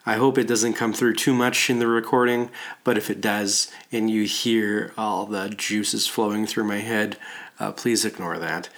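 stuffy nose, congested speech. Real, not acted. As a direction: talk through a blocked-up head cold. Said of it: "my congested voice today".

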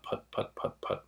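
soft unvoiced engine putts; quiet puttering engine noise; mimic engine putt. Shown as a demonstration. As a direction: puff out the putts like an idling two-stroke. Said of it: "produces a very particular kind of put".

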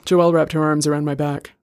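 plain reading voice

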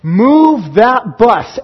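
lightly imitated TV host call, drawn out slowly; slow, stretched-out rallying call; show crew call. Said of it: "And they would say".

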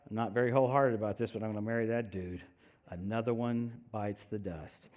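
low, dragging half-hearted voice; mock a bride who'd rather not; reluctant bride. Bride walking down the aisle, glum and low.

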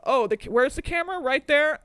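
loud, high, showy call-out; mock triangle player. Host voicing the triangle player at the Met, loud and high. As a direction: belt it like a hammy show-off. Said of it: "He said".

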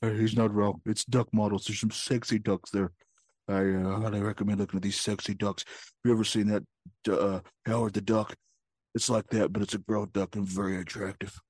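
low, soft leering voice; hushed and sleazy; low creepy voice. Pretend. Low quiet creepy pitch.

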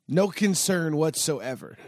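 slow, easygoing, unconcerned drawl-free delivery; unbothered. Retold or imitated. Retelling how Billy shrugged off the dead motor, said slow and unconcerned. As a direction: let it hang, totally unworried. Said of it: "he said it with, like".

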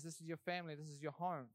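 softly, a touch of God's reassurance; lightly voiced God, tender and sure; gentle divine voice. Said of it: "But God says".

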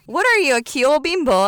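high, loud incredulous mom yelp; mock shocked mom. Mom reacting to her daughter, high loud disbelief. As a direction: shriek it like a scandalized mother.

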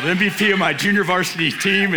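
proudly announcing a title, with a playful push; emphatic boast. Shown as a demonstration. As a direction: hammer home the big achievement. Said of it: "I'm just telling you, like, it's a big deal to me".

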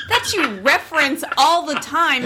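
can't keep a straight face while accusing; laughing. Real, not acted. Wife laughing at husband's denial.

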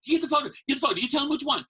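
high, loud nagging yell; parents yelling. Retold or imitated. Parents shouting at their child on Santa's lap, loud nagging. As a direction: bark orders at a kid in a Santa line. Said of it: "They're yelling, yelling, yelling".

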